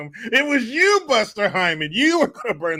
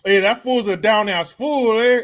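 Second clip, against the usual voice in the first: a hint of a proud homie voice, louder; mock approving fan; 3 semitones higher, 5 dB louder than usual. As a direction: say "down-ass fool" like a hyped-up buddy giving props. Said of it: "if anybody looks at that and says".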